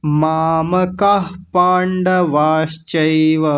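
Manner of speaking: slow chanted reading of the verse line; Sanskrit recitation. Shown as a demonstration. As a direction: recite मामकाः पांडवाश्चैव evenly. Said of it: "थोड़ा जल्दी बोल लेते हैं".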